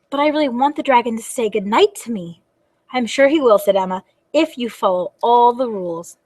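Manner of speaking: expressive storybook reading; lively storytime delivery; reading to children. Acted. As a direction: read the dialogue aloud for little listeners. Reads a picture book aloud.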